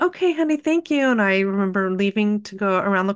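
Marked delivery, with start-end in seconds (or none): 0.0-1.1 higher, bright act of calm over panic; forced cheer. Retold or imitated. Mom thanking daughter for the drawing, hiding her fear with forced cheer. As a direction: keep smiling though shattered inside. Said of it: "I'm gonna smile".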